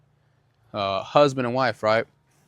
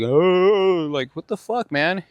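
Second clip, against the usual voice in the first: higher mock-clueless voice of the guy who bumped him; pitched-up mock innocence, like he did nothing wrong; imitating the man; 7 semitones higher, much slower than usual. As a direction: play the oblivious stranger, pitched way up.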